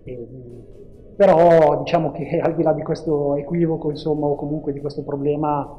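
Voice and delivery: phone-recorded interview audio; tinny cellphone recording; low quality stream. Real, not acted. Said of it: "ci scusiamo per la qualità dell'audio".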